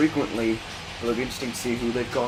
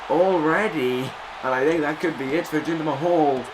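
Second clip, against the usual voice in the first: wrestling commentator. Acted. Calls the match play-by-play.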